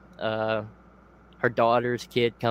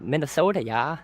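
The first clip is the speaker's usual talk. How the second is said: put-on Minnesota accent; 3 semitones higher than usual. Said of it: "he has that ... accent".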